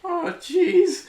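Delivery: very high, loud, fretful cartoon kid; loud high-pitched Morty voice; Morty impression. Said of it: "I can do Morty as well".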